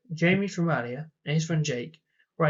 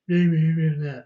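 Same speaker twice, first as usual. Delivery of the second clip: louder, run-together mock babble; mock drunken gibberish; 5 dB louder than usual. Drunk driver babbling at the speaker, mock gibberish. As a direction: imitate a drunk's gibberish, lightly hammed-up. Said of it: "starts talking gibberish".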